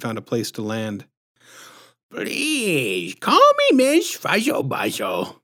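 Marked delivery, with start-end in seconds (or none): 2.1-5.4 high, drawn-out, slushy lisping sweetness; patronizing lisp. A narrator's reading. Visitor introducing herself to the parents, patronizing lisp. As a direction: stretch it out high with a squishy lisp. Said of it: "patronizing, squishy-throated lisp".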